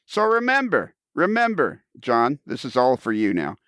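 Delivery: big high announcer sign-off. Acted. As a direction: read it like a radio tag line. Scripted show sign-off.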